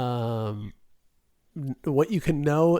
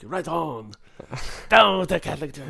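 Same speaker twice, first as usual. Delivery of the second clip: cheering listener; 3 semitones higher, 4 dB louder than usual. Retold or imitated. Imitates the one French listener cheering.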